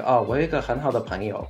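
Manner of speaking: quick, light Taiwanese Mandarin lilt; 我有一个很好的朋友 said fast and even, Taiwanese style; Taiwanese accent. Shown as a demonstration. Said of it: "Like in Taiwan, you might say, like".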